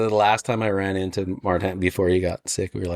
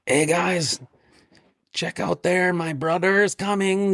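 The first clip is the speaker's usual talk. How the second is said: higher excited voice imitating Paskey; 7 semitones higher, slower than usual. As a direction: pitch it up, an excited guy pointing out his brother. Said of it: "I think, like, Paskey's".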